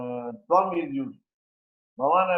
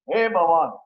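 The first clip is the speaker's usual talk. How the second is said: mild mock call; 2 semitones higher, 6 dB louder than usual. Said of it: "I am shouting to call him".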